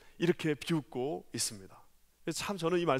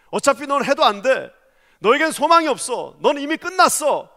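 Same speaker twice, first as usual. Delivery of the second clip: taunting, building from plain to loud and higher; accusing Satan; 7 semitones higher, 10 dB louder than usual. Retold or imitated. Satan taunting believers, rising to loud contempt. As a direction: sneer at the listener until you shout. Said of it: "모든 사단이 저와 여러분에게 참소합니다".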